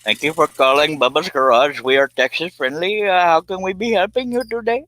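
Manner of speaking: loud, high folksy Texan twang; a hammed-up Bubba answering the phone; Texan garage greeting. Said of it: "get me a Bubba".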